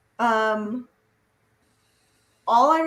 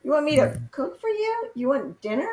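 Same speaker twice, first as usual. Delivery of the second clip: nagging mother; 4 semitones higher than usual. Retold or imitated. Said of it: "I just sounded like my mother".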